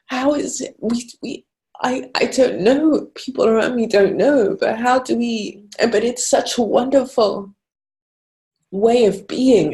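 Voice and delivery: searching for words while still crying; real tears lifting the voice; tearful. Real, not acted. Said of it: "apologize for crying".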